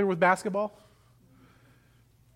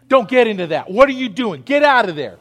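louder stern commands to a misbehaving dog; scolding the dog; 5 dB louder than usual. Acted. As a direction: shoo the dog off firmly. Scolding the dog Miss Violet.

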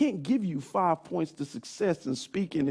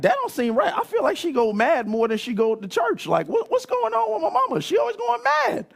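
put-on high, loud kid voice full of confusion; a little kid baffled and indignant; puzzled child; 5 semitones higher, 4 dB louder than usual. Young son wondering aloud where mom goes, high and loud.

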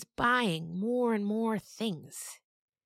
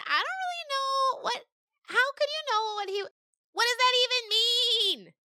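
very high, louder puzzled goat voice; confused goat; 3 dB louder than usual. Acted. Mangoat puzzled at the story, very high. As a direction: fumble like a baffled kid goat. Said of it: "Mangoat said".

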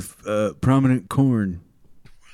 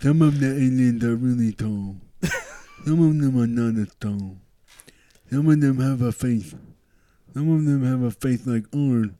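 alien believer voice; 3 dB quieter than usual. Pretend. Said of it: "your alien believer voice".

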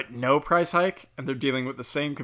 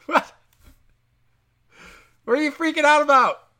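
incredulous; 12 semitones higher, 7 dB louder than usual. Real, not acted. Incredulous rant at abortion panic.

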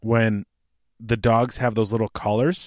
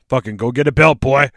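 harsh parent; 6 dB louder than usual. Acted. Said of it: "trying not to be the assholes who".

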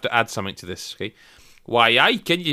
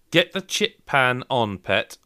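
put-on Geordie accent; 2 semitones lower, slower than usual. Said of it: "in an authentic Geordie accent".

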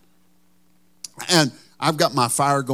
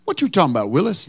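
lightly voiced sitcom kid, a touch higher; TV catchphrase impression; 4 semitones higher, faster than usual. To his neighbor Ken, a light sitcom impression. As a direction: toss off the famous line in mock disbelief. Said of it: "I gave him the best".

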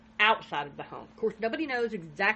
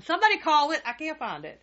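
mock panic; 7 semitones higher, 6 dB louder than usual. Mock panic over lost phone.

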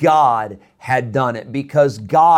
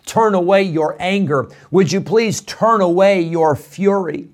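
earnest mild plea, slightly raised; imitating an urgent prayer; pleading; 3 semitones higher than usual. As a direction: plead with God, pressing on "please". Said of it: "Daniel is begging God".

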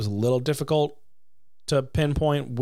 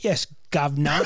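mock Cockney. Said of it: "Cockney accent".

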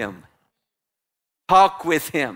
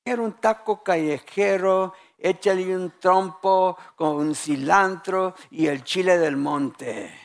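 Spanish. Retold or imitated. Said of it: "there's people who know Spanish".

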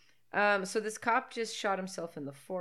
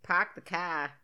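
mock Boston accent; slower than usual. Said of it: "try to talk in a Boston accent".

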